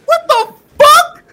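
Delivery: high, loud, slow laughing terror; scared shout. Retold or imitated. Kid seeing the taser lady, laughing frightened shout. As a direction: gasp it out half laughing, half scared. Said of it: "I was like".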